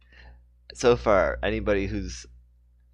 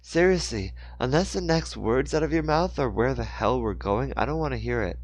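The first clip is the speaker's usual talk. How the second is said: furious; 4 semitones higher than usual. Acted. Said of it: "She was furious now".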